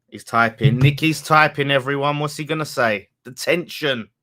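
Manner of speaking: loud, hammed-up running commentary; mock suspense. Streamer announcing a friend is typing, mock suspense. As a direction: build mock tension like a commentator.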